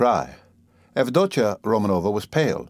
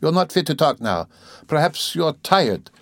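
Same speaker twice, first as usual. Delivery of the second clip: mildly gentle, high-pitched voice; 7 semitones higher than usual. A narrator's reading. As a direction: soothe him in a higher voice. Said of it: "she added gently".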